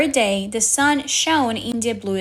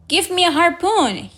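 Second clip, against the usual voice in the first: higher, forceful demand; angry demand; 7 semitones higher, 3 dB louder than usual. A narrator's reading. Ahab, unable to stand, demands a harpoon angrily. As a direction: snap the order angrily. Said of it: "he said angrily".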